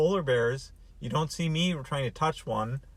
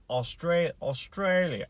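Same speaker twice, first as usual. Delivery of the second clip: higher, hesitant stab at Australian; attempted Australian accent; 3 semitones higher, slower than usual. Shown as a demonstration. Host tries how they talk, clumsy Australian accent. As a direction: have a shaky go at an Australian accent. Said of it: "saying it in an Australian dialect".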